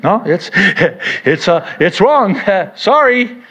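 laughing through the words; cracking up mid-sentence. Real, not acted. Laughs breaking into quote.

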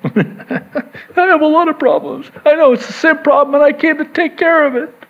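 high, laughing reply; laughing aside. Real, not acted. Pastor answering imagined Jesus, laughing and high. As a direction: chuckle through the confession.

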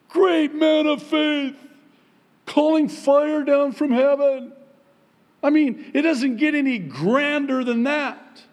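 excited. Real, not acted. Preacher ramps up, laughing.

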